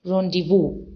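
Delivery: rendezvous as "RON-di-voo", no Z sound; correct pronunciation. Shown as a demonstration. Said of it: "it is pronounced as rendezvous".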